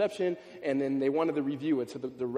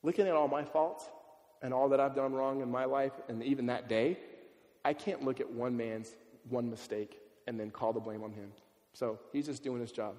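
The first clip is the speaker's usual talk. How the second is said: gentle humble reply; 3 semitones lower than usual. Retold or imitated. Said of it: "his response was this".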